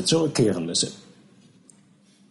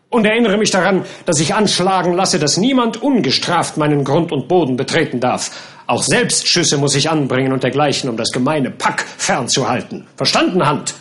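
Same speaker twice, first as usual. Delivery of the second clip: stern captain. Acted. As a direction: bark orders at the gardener. Captain orders gardener. (herrischer Captain)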